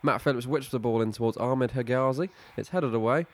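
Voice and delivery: steady play-by-play commentator read; match commentary. Acted. Live football play-by-play.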